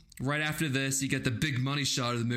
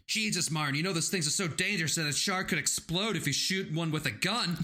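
a lightly higher mock Hooper voice; Hooper impression; 6 semitones higher than usual. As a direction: toss it off like a know-it-all scientist. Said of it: "imitating Hooper addressing Brody".

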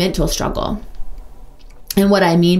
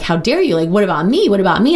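put-on whiny child; 2 semitones higher, faster than usual. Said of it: "like a little kid, kicking and screaming".

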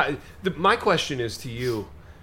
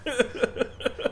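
real laugh; 11 semitones higher, 4 dB quieter than usual. Real, not acted. Co-hosts laughing over conversations.

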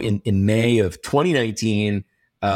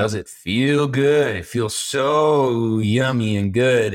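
indulgent savoring; much slower than usual. Acted. Host admits overwork feels delicious, drawn-out indulgent tone. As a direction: stretch it out, lips almost smacking.

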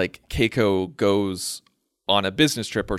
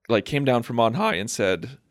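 voice cracking; 2 semitones higher than usual. Real, not acted. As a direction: voice breaks mid-phrase. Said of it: "my voice just cracked".

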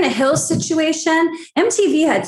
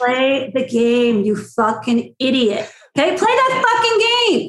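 mock scolding. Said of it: "I'm like".

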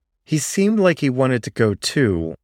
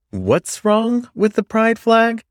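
challenging question; 12 semitones higher than usual. Acted. Miles challenging at GSA meeting.

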